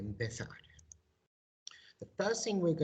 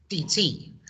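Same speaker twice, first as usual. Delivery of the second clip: normal talking voice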